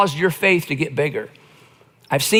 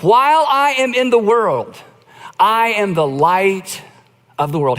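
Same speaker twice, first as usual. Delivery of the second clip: solemn Jesus. Retold or imitated. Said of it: "He says".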